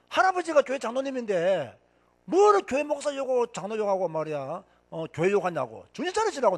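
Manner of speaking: mild retold scolding of uncles; indignant telling-off, retold. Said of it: "내가 그렇게 고함을 질러도요". (외삼촌들을 꾸짖는 가벼운 호통)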